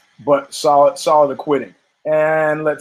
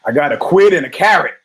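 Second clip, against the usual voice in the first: punchline horse; 5 dB louder than usual. Retold or imitated. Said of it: "And the horse says".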